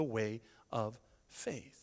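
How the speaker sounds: slow soft whisper. Real, not acted. Pastor to congregation, slow reverent whisper. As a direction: breathe it out reverently. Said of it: "preacher closing point".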